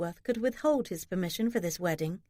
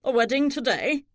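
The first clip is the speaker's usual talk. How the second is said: higher-pitched demand; 4 semitones higher, 4 dB louder than usual. A narrator's reading. Thomas demands to know about the wedding, demanding and higher. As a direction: demand to know, taken aback. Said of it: "Thomas demanded".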